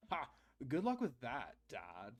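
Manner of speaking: put-on bored teen sneering at dad; apathetic teen. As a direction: toss it off like a sulky teen. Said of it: "make him sound like an apathetic teen".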